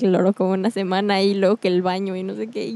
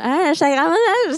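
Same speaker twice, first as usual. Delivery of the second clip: slow, high-pitched mock Spanish accent; mocking accent imitation; 6 semitones higher, slower than usual. Friend suggests imitating the teacher, mocking Spanish accent. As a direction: drag it out in a hammed-up Spain accent. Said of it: "La hubieras imitado así como".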